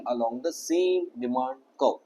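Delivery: slow, measured phrase for repeating; slow drill. Shown as a demonstration. Teacher leading students to repeat a key phrase, slow drill. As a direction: spell out "along the same demand curve" slowly. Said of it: "मेरे साथ बोलो".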